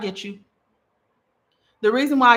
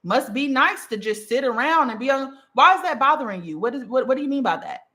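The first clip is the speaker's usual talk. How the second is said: curious question; 3 semitones higher than usual. Shown as a demonstration. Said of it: "I always ask a question".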